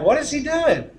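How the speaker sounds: mock confusion from the audience; lightly voiced confused listener; puzzled listener. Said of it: "you're like".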